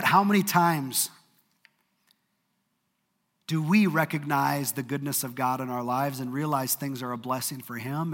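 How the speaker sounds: ordinary talk, nothing marked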